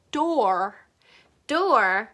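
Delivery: "door" with the tongue pulled fully back; "door" ending on a deep American R. Shown as a demonstration. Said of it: "혓바닥은 고, 완전 뒤로".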